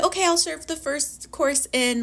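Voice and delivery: a touch of excitement; mildly eager butler; mildly excited butler. Retold or imitated. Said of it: "he was excited".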